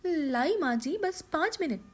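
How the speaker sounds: daughter-in-law calling back to her mother-in-law; young daughter-in-law. Acted. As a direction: answer sweetly from the kitchen. Daughter-in-law answers from kitchen.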